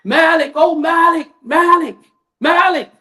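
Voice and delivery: high, pained calling out of a name; agonized wailing. Retold or imitated. Preacher voicing the damned crying to Malik, high wailing. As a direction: wail for him from the fire, begging. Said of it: "screaming in pain and agony".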